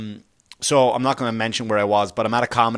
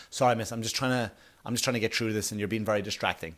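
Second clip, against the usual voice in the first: softer, politely asking her to stop; calm, quiet request to a heckler; hushed courteous comedian; 8 dB quieter than usual. Retold or imitated. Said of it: "so I just quietly said".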